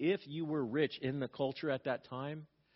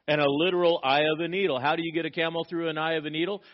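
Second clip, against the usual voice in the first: emphatic preaching; 2 semitones higher, 6 dB louder, faster than usual. Real, not acted. Preacher building to the punchline.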